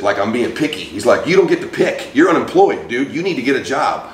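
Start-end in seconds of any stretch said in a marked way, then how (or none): 1.3-4.0 higher-pitched imitation of a lecturing dad; retold fatherly scolding. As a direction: lay down the law as dad, mildly. Dad scolding unemployed son, retold.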